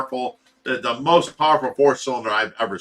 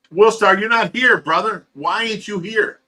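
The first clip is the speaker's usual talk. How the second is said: high, loud calling out to a missing friend; teasing shout at an absent brother; loud callout; 7 semitones higher, 6 dB louder than usual. Real, not acted. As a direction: yell across to the buddy who isn't there.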